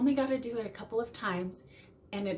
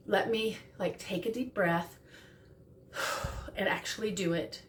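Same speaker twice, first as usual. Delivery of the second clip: calm apology; 2 semitones lower than usual. Shown as a demonstration. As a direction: model a calm sorry and a breath. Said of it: "really important that you say".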